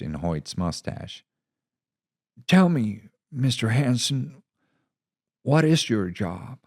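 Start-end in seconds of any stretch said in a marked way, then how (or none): 2.5-6.6 much higher, measured and understanding; steady reassuring commander; calm commander. Acted. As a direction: soothe the angry reporter. Commander asks genuinely.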